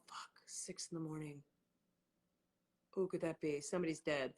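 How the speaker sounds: low, soft, sleepy grumble; groggy half-asleep mumble. Retold or imitated. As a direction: mumble it like you were just woken up. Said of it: "I was like".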